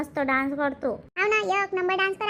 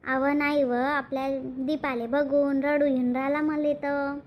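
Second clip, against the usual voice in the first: slow, weepy explanation; tearful; 3 semitones lower, slower than usual. Acted. Mother explaining why seeing Deepa makes her cry, tearful. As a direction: admit it haltingly through held-back tears. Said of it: "काऊन रडून राहिली?".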